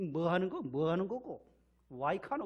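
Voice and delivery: loud, hot-tempered Gyeongsang outburst; Gyeongsang dialect. Retold or imitated. Gyeongsang man whose arm is twisted, shouting loud in dialect. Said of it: "경상도 사람들은 팔 삐틀면은".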